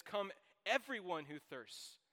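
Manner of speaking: loud, slow, ringing call to everyone; proclaimed invitation. Acted. Preacher reading the verse to the congregation, loud slow proclamation. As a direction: call out the verse to the whole room, slowly.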